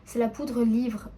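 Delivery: slow, careful retry through a dry mouth. Real, not acted. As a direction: push the words out past a dry mouth. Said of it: "J'ai la bouche sèche".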